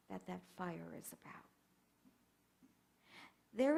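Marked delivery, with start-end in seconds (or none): 0.1-1.4 hushed whisper; whispered confidence. Real, not acted. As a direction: breathe it out softly. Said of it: "soft sermon close".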